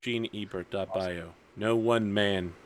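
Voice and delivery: lightly acted brooding hero, measured pauses; deliberate, grave speech building to an oath; solemn vow monologue. Hero monologuing head down over his sword, solemn resolve.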